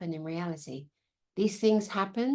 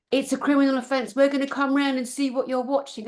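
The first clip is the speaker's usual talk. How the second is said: a hint of a stern official, higher; mock official warning; 6 semitones higher, 3 dB louder than usual. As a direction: parody the authorities' threat. Reading another threatening letter.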